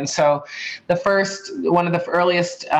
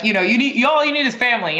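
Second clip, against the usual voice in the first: quick, raised mock-parent voice, higher; teasing parental lecture, pitched up and rushed; mimicking Haitian parents; 8 semitones higher, faster than usual. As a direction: playfully impersonate strict Haitian parents. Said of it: "they're like".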